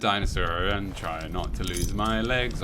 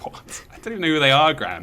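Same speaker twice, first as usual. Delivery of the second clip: put-on incredulous kid; 6 semitones higher, 6 dB louder than usual. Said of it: "And I was like".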